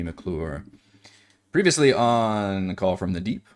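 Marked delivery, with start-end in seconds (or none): 1.5-3.5 trailer announcer. Acted. Opens recap like a show.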